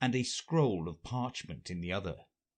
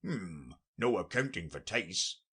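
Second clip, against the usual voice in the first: offended; 2 semitones lower than usual. Acted. Gryphon reacts to Alice's eagerness, mildly offended. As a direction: sound a touch put out. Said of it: "in a rather offended tone".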